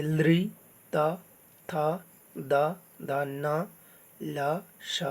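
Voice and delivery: "त, थ, द, न" with the tongue at the teeth; dental sounds. Shown as a demonstration. Teacher showing learners which letters are said from the teeth, dental sounds. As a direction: recite "त, थ, द" separately as dental letters. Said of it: "दांत से".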